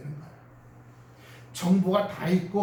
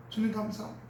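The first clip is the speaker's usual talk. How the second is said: soft prayer; 6 dB quieter, faster than usual. Shown as a demonstration. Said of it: "은혜가 와요".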